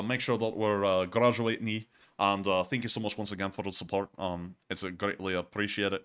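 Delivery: shaky attempt at a Scottish accent. Shown as a demonstration. Streamer thanking a donor for support, in a rough Scottish accent. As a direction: have a go at Scottish, not quite landing it. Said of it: "I'm trying to do the Scottish accent".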